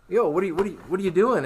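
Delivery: mock-shocked, pushing the gift back; startled protest. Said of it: "And I'm like".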